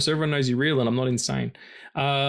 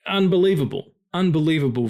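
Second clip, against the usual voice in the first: higher and louder, a burst of awe; amazed; 4 semitones higher, 4 dB louder than usual. Real, not acted. Podcaster raving to cohost about the visuals, awestruck. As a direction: blurt it out, floored by what you saw.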